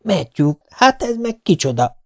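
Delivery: Marilla shocked, voice jumping high; startled exclamation to Matthew; cry out. A narrator's reading. Marilla cries out at the strange girl. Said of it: "kiáltotta".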